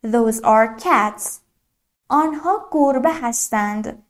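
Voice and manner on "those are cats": "these are cats" spoken very slowly, word by word; slow model sentence. Shown as a demonstration. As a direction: spell it out slowly for learners. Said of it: "مثلاً".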